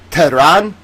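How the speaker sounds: Tehran as two careful syllables, rising questioningly; tentative, questioning "Teh-RAN"; sounding out Tehran. Shown as a demonstration. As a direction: try out "Tehran" syllable by syllable, unsure. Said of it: "teach me how to phonetically pronounce".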